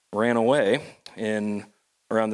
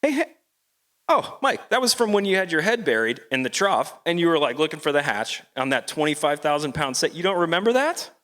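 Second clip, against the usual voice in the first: much higher, eager butting-in voice; crewmate's voice; 4 semitones higher than usual. Retold or imitated. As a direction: jump in high and excited, teasing Mike. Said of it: "My crewmate butts in and goes".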